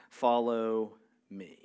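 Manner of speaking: hushed, intimate follow me; whispered call. Acted. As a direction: breathe it like a gentle call. Jesus's call, then repeated aloud.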